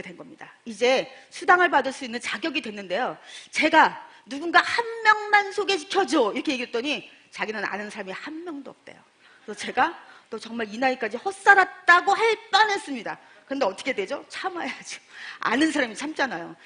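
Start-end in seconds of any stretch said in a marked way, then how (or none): 4.6-6.3 pleading ask. Retold or imitated. Begging friend for a referral. 10.3-12.1 exasperated retort. Retold or imitated. Exasperated thought she held back.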